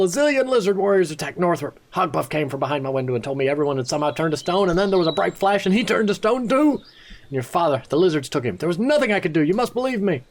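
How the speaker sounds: put-on high, upset young man voice; frantic young apprentice. Apprentice Word telling the hero in a high upset voice. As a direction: tell the terrible news in a rush of fear.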